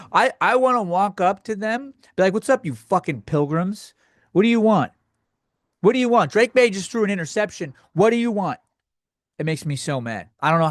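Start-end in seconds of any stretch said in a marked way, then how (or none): 2.3-8.6 higher, exasperated demand at customers; mock angry server. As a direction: snap at the diners as if they interrupted you. Imagined angry greeting to customers.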